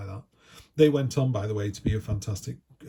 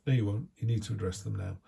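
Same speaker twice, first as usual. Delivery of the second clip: ordinary talk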